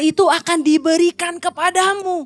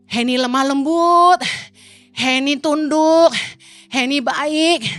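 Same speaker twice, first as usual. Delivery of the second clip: joking blessing; slower than usual. Retold or imitated. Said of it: "sambil bercanda".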